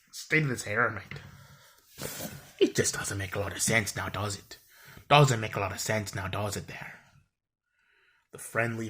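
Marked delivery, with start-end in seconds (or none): 0.1-2.1 attempted Irish accent. Shown as a demonstration. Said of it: "I can't do a good Irish accent". 2.6-6.9 rough, playful Irish accent; attempted Irish accent. Shown as a demonstration. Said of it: "I can't do a good Irish accent".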